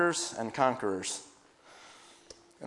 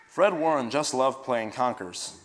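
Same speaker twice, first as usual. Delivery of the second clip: put-on gentle storytelling voice for children; story narration. A narrator's reading. Adult reading a story to children, gentle storytelling. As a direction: read it like a bedtime story to kids.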